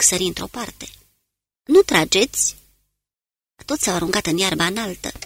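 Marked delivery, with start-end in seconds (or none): 1.6-2.6 sharp, louder and higher hushed alarm; urgent warning. Acted. Smith warns the men of a passing convoy, urgent. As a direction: snap out the warning fast. Sudden warning during the march.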